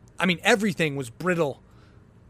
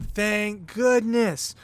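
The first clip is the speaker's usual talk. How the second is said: relieved sigh; 4 semitones higher, much slower than usual. Retold or imitated. Door finally closes.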